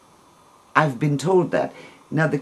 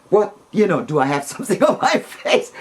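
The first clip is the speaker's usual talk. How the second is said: retold alarm; 7 semitones higher, 3 dB louder, faster than usual. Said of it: "I immediately think negative".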